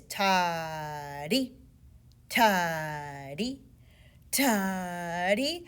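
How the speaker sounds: slow spoken ta-dee syllables; rhythm syllables. Shown as a demonstration. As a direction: say ta-dee, toddy slowly, two even parts. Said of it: "because each beat has a toddy in it".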